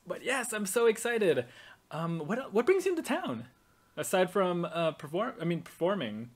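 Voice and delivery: excited. Acted. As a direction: rise with delight.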